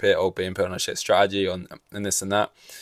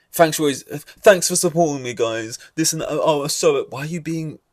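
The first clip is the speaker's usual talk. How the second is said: imitating a passive aggressive driver; mocking; 3 semitones higher than usual. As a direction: mimic him whining sarcastically. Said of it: "It's like".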